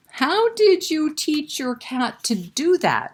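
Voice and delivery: put-on high, eager girl's voice; Pam's amazed question. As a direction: ask it like an astonished little girl. Pam asks Peter, amazed.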